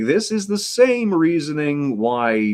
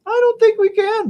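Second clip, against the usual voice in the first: mock dramatic repeat; 5 dB louder than usual. Repeats own line, much higher, louder.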